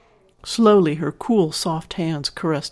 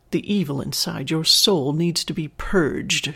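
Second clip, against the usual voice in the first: intoning. A narrator's reading. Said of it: "she intoned".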